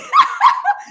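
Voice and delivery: high, quick giggle; high laugh. Real, not acted. Laughs about Joan.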